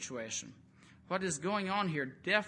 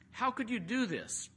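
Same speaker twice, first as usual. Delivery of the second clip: higher, alarmed question; frightened sailors; 7 semitones higher than usual. Retold or imitated. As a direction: sailors shocked and afraid. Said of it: "became extremely frightened and said".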